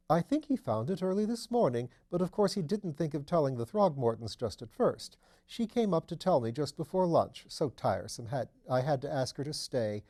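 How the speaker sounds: lightly voiced duchess, amused and chatty; mother describing the body, lightly voiced chatty duchess; gossiping duchess. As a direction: share the scandal with mild amusement.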